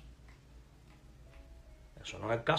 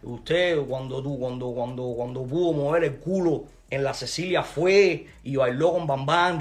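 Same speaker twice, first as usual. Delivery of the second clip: louder insults; angry tirade; 5 dB louder than usual. Real, not acted. Accusing the rival of hypocrisy, angry tirade. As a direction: fire the accusations at him.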